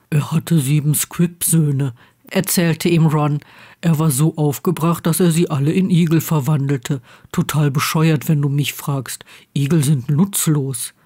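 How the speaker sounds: a hint of a deadpan storyteller; Ron, Harry's friend. Ron tells Harry a tale at bedtime, lightly voiced friend.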